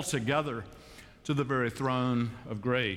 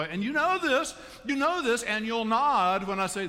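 emphatic preaching; 10 semitones higher, 4 dB louder than usual. Acted. Preaching push.

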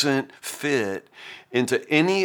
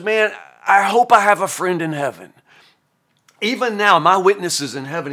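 hopeful Job; 4 semitones higher, 3 dB louder than usual. Retold or imitated. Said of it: "what he says is".

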